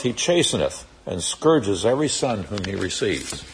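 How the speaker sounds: measured, solemn King James reading; scripture reading. Acted. Teacher reading scripture aloud to class, solemn and measured. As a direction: read the old scripture to the class with weight. Reads Hebrews passage aloud.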